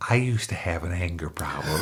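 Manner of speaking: soft breathy whisper of a timid man; meek quiet man. Retold or imitated. Imitating his meek therapist's confession, soft whisper. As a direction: shrink into a meek little murmur. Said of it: "this little meek little man, just very, very quiet".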